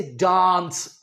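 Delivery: डांस drawn out as "daans"; British aa. Shown as a demonstration. Teacher giving an example of the aa sound, long डांस. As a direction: stretch the open aa in डांस. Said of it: "आ की sound आ रही है".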